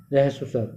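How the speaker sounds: रहस्व said as ra-has-v, a vowel between r and h; rahasv pronunciation. Shown as a demonstration. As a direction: say रहस्व स्वर with a full ra before has. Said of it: "रहस्व स्वर कहते हैं".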